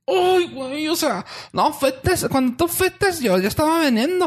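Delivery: high, rustic countryside grandma speech; rustic old lady. Retold or imitated. Imitating the ranch lady's muddled story, high rustic voice. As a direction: squeak out the rancho granny lines. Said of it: "mis oídos eran también así de".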